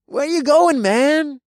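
high, loud bro voice; suspicious frat bro. A narrator's reading. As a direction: press him like a nosy bro. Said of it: "as his eyes narrowed".

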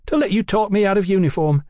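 fast, high, indignant grumble; exasperated complaint. A narrator's reading. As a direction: complain crossly, pitch well up. Brian grumbles over his uniform.

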